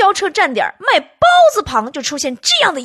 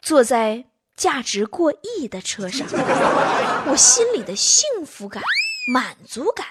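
mock-profound musing. Comedian muses in the car on the way home, grandly pensive. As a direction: declaim it like a solemn inner monologue. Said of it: "我正在沉思着".

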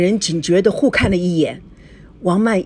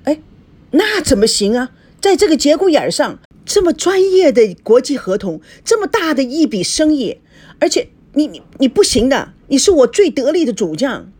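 high, insistent objection with stumbles; urgent protest; 7 semitones higher, 3 dB louder than usual. A narrator's reading. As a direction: argue hard to keep your best colleague. Boss urgently refuses assistant's resignation. (急切地挽留)

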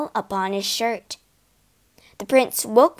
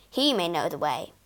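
hushed, lower confiding whisper; the east wind confides in Asta; 6 semitones lower, 5 dB quieter, faster than usual. Acted. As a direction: lean in and whisper it. East wind confides about brother.

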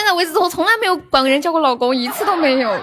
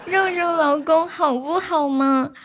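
撒娇十连. Pretend. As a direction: sweetly coax each husband, half-joking. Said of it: "撒娇十连". (撒娇的语气，拖长尾音)

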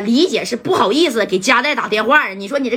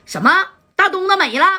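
higher, stunned question; shocked disbelief; 8 semitones higher than usual. Acted. Dai hearing on the phone his brother is dead, shocked. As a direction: blurt it out in shock.

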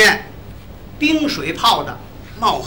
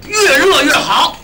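slow, high, drawn-out order; emphatic ordering; 6 semitones higher, 4 dB louder, slower than usual. Acted. Diner giving waiter a secretly reversed order, drawn-out emphasis. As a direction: stretch each word out for the waiter.

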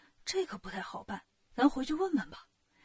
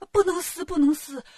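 urgent protest; 4 semitones higher, 4 dB louder than usual. Acted. Bystanders stop him tearing notice.

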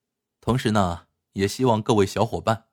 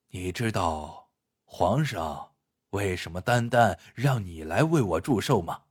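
grave elder brother Huo Sanye, confiding; 4 dB quieter than usual. Acted. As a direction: confide gravely, pausing between phrases. (霍三爷低沉郑重地倾诉)

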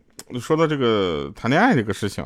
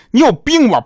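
much higher, loud indignant yell; angry shout; 13 semitones higher, 8 dB louder than usual. Retold or imitated. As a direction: snap at him in outrage. Slapped after rude request.

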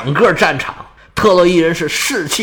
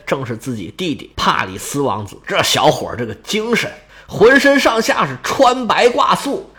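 usual speaking voice

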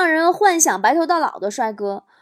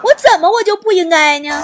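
边笑边重复反问，重音在“我”; 自嘲地笑着再问一遍; 笑着反问; 5 semitones higher, 6 dB louder than usual. Acted. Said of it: "重复自问". (笑着自嘲再问一遍)

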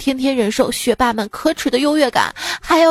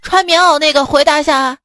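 roaring teacher; 2 semitones higher, 4 dB louder than usual. Acted. Teacher yelling at the boy in the jacket, loud. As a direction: shout it to the back row. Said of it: "老师又吼道".

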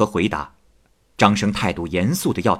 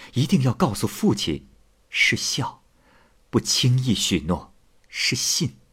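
admiring praise; 3 dB quieter than usual. Acted. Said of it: "阿喜赞叹张生说".

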